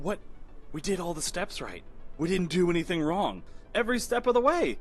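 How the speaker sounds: mildly acted bafflement; puzzled self-justifying protest, understated; dumbfounded prince. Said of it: "the prince is just sort of standing there dumbfounded".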